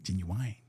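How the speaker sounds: "genuine" said as JEN-yoo-wine; ends in -wine. Retold or imitated. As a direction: make the end of "genuine" rhyme with wine. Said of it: "I know some people say".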